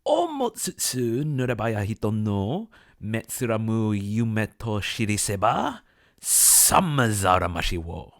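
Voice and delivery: loud, drawn-out Japanese poem recital; poem recitation. Acted. Narrator recites an old Japanese poem for viewers, theatrical declamation. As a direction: declaim the verse slowly and grandly, swelling near the end. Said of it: "which goes like this".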